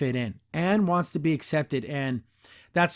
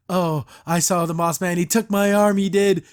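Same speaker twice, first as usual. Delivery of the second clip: lightly hammed-up crazy townsman; town crazy; 5 dB louder than usual. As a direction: put a little extra volume into the crazy man's claim. Voicing the town drunk's outburst.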